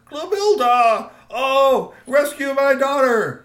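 loud, high, drawn-out call; alarmed father's cry. A narrator's reading. Troll father seeing his daughter dragged away, crying out. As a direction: wail the name out across the room.

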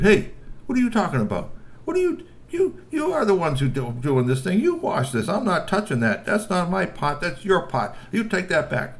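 high, loud, angry half-troll tirade; angry troll outburst. Acted. G P angrily refusing to wash the pot, high and loud. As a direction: shout it back, refusing the pot.

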